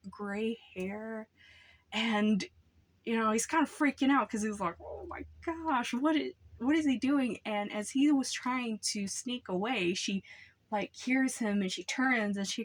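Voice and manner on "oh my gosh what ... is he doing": high, startled and breathless; shocked gasp. Retold or imitated. Boy in the woods shocked at naked neighbor, high startled voice.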